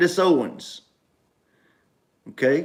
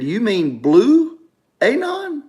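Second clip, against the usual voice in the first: mocking quote; 7 semitones higher, slower than usual. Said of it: "he said".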